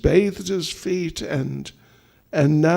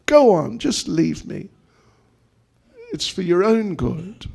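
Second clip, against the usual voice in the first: higher, insistent mock urging; mock-serious urging; 5 semitones higher, 3 dB louder than usual. Husband teasingly telling his wife to leave him, mock-serious. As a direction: urge her as if in earnest. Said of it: "Krishna's talking like he's serious".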